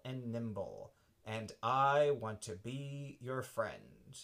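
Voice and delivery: slow, lightly voiced friendly cheetah. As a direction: speak slowly like a proud gentle cheetah. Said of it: "the cheetah opened his mouth and said".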